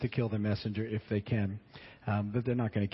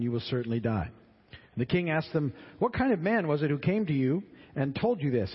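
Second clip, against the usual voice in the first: scripture reading; 2 semitones higher than usual. Acted. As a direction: read the passage out to the class. Reads scripture between comments.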